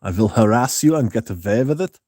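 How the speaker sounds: mock Prussian creep; hammed-up Prussian accent, rising at the end; Jeremy Fragrance. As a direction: put on a sleazy Germanic voice. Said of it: "general, like, Prussian sort of, like, sex offender".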